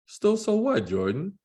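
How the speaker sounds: dad voice. Acted. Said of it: "I'm gonna try to do voices to distinguish".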